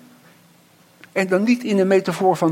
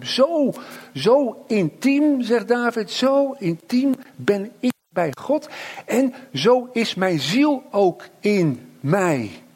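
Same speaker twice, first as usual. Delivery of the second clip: slow tender emphasis; 4 semitones higher, slower than usual. Acted. Pastor repeats David's words.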